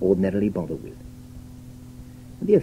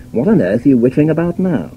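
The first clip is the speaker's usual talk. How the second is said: insulting; 4 semitones higher, 4 dB louder, faster than usual. Retold or imitated. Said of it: "more likely to sound insulting".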